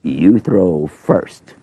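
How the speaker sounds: slow, deliberate and calm; every word given its own time; Moses, unhurried. Pretend. Moses declines to go first.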